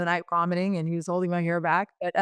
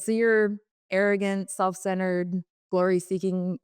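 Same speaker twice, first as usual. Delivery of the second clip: mock accusing tease; slower than usual. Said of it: "I said".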